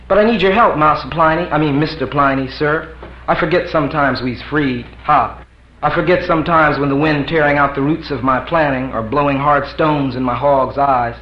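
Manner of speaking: lightly voiced pleading servant; mock humble plea; deferential servant. Black man pleading to Pliny, hammed-up deference. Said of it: "Like that".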